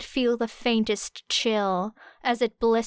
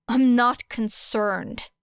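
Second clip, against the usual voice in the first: scoffed; 4 dB louder, slower than usual. Acted. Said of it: "scoffed Era".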